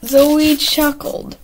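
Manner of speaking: slow, loud reading through laughter; laughing harder as you reread. Real, not acted. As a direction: read it out while cracking up. Rereads own duplicated line, laughing.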